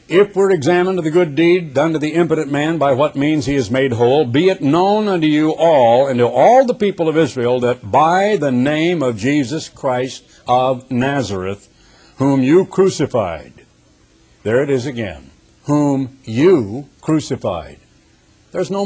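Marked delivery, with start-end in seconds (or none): 0.1-13.5 forceful, measured Bible reading; preacher reading Scripture aloud; emphatic Scripture reading. Acted. 15.6-17.8 slow, weighty "whom you crucified"; deliberate pauses round YOU in "whom you crucified"; emphatic repetition. Acted. Repeats verse for emphasis.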